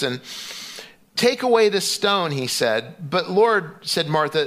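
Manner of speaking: measured scripture reading. Acted. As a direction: read the Bible passage to the congregation. Reads scripture passage aloud.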